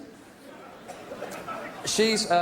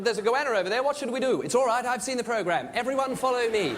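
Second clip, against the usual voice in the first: put-on higher, earnest English accent; English tourists; 5 semitones higher than usual. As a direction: play English holidaymakers conferring. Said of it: "pictures of English people in Australia".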